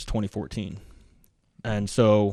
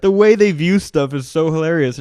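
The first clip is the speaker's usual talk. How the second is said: laughing; 6 semitones higher, 6 dB louder than usual. Real, not acted. Laughing at the memory.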